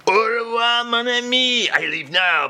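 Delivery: hammed-up French accent; French farewell. Charles bidding the host farewell in French accent.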